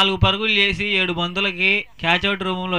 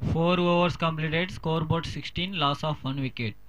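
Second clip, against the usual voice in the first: very slow, softer announcer read; slow scoreboard announcement; 6 dB quieter, much slower than usual. Acted. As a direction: announce the score slowly and softly.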